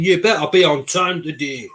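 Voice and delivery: best attempt at a Scottish accent. Teasing Anton's message about being on time, imitated Scottish accent. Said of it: "That's my best Scottish accent".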